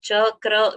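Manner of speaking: Chakra split as cha-kra without a doubled k; "Chakra" with a single light k; no pressure. Shown as a demonstration. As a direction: say Chakra with an open first syllable. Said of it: "we cannot say chakra".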